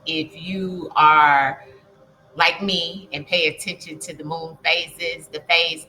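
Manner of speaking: talking around a retainer; slightly slurred, retainer in mouth; wearing a retainer. Real, not acted. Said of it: "I'm talking funny 'cause I have my retainer in".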